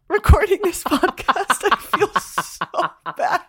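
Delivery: laughing. Real, not acted. Laughing about being hungover.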